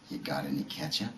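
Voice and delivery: low, soft, easygoing question; gentle retold reassurance. Pothead husband to wife who burnt supper, gently easygoing. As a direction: play it mellow and forgiving, voice dropped.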